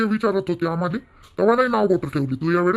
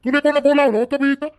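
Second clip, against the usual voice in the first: higher, sharp rebuke; angry rebuke; 5 semitones higher than usual. Acted. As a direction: throw the question at him, pitched up. Father rebukes son for returning.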